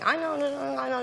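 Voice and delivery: imitated Japanese syllables; mock Japanese. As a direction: babble as if speaking Japanese on the phone. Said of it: "in Japanese to the, to the hand".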